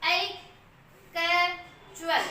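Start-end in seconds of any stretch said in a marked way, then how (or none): 1.1-2.2 कैचुअल said slowly, syllable by syllable; slow demo word. Shown as a demonstration. Teacher slowly models कैचुअल for students. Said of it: "ऐसे बोल रहे हैं एक्चुअल".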